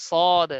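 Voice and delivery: সদ said loud with a thick rounded vowel; heavy letter. Shown as a demonstration. Teacher naming the letter to learners, heavy pronunciation. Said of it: "মোটা থাকবে উচ্চারণ এরকম".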